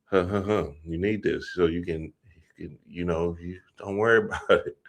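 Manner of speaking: soft, hushed coaxing with a chuckle. Retold or imitated. Ex urging the wife to drink, soft and hushed. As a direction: talk her into the drink quietly.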